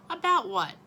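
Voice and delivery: loud, sharp "About what?"; defiant outburst. A narrator's reading. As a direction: push back hard at Dad. Boy defiant with Dad.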